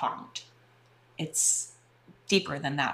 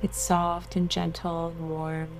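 guided meditation. Acted. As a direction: soothe them into relaxation.

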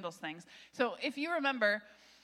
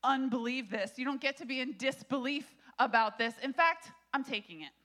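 authoritative angel; 2 semitones higher, 5 dB louder than usual. Acted. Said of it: "he's basically saying".

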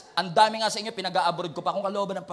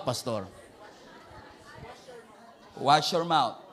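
defiant churchgoer; 6 semitones lower than usual. Retold or imitated. Acting a defiant believer.

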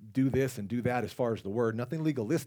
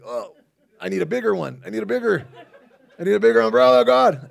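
loud and much higher, crying out for a bigger umbrella; hammed-up panicked plea; desperate plea; 12 semitones higher, 16 dB louder than usual. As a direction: mock-desperate shout to God, rising each time.

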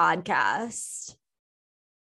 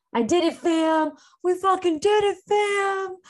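high, loud victory shout; real joy breaking out, pitched way up; triumphant cheer; 10 semitones higher, 4 dB louder than usual. Real, not acted. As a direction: celebrate it like you just won. Celebrating quitting her job.

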